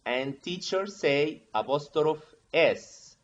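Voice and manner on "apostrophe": "apostrophe" mispronounced, no E at the end; apostrophe without final E. Retold or imitated. Teacher quotes students' slip, "apostrophe" without its final E. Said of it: "without E".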